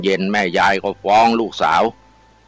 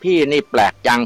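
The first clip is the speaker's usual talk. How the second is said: put-on coy young woman; 6 semitones higher than usual. Young woman answers suitor coyly.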